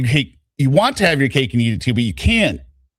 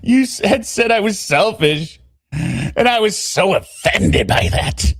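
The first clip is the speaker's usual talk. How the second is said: high-pitched woman's reading voice; 10 semitones higher than usual. Acted. Texting her lover about their fight, high put-on voice. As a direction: read her messages in a raised, dramatized pitch.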